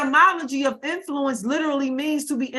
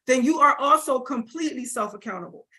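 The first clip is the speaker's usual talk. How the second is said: "completely" given deliberate weight; stress on completely. Real, not acted. Coach telling light workers their duty, stressing "completely". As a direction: lean on the word "completely". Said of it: "I'm stressing the word completely".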